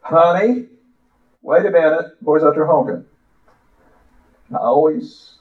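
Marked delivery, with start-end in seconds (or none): 0.0-3.1 higher, calling mom voice; mommy hollering. Retold or imitated. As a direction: call out like a mother at the door. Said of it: "Mommy would holler".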